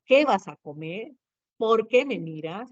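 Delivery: "¿Qué vas a comer?" and "¿Por qué me miras?" as real questions, rising; teacher's model questions with rising endings; questioning tune. Shown as a demonstration. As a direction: ask it, lifting the end of "comer" and "miras". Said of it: "por ejemplo, si yo digo".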